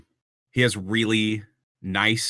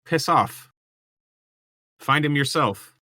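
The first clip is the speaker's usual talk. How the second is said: dismissive soldier; 6 semitones higher than usual. Acted. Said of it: "brush it under their chin like".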